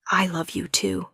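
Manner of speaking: whispered softly, barely any voice; tender whisper. Acted. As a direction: breathe the confession, close and intimate. Tender confession to her husband.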